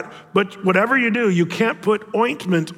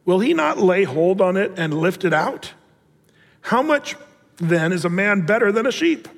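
scripture reading. Acted. Reads Jesus' words in scripture.

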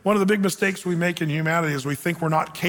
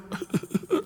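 breathy, voiceless fake sobs; short put-on weeping noise; mock crying; 11 semitones higher, 6 dB quieter than usual. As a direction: imitate someone bursting into sobs. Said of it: "Elijah starts crying".

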